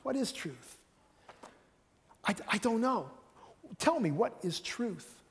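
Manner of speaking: exasperated plea; pleading in frustration; frustrated. Shown as a demonstration. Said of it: "or a frustration".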